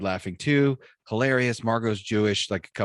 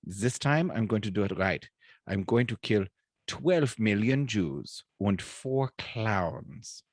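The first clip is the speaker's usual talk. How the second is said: lightly voiced German dictator in a joke; a hint of German accent, deliberate delivery; Adolf Hitler; much slower than usual. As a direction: spell out the plan with mild mock-German precision. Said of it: "And Hitler's like".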